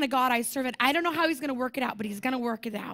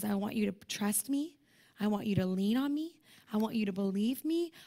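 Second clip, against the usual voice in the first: tender voice of God; 4 semitones lower, 4 dB quieter than usual. Acted. God's voice, gentle.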